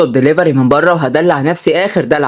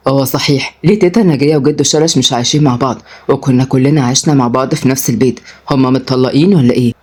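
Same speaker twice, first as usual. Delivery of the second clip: lightly voiced man, low and mildly confused; understated puzzlement in a lowered pitch; puzzled; 5 semitones lower than usual. Suitor asks why the grandparents live apart, puzzled. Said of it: "ورد أدهم بحيرة".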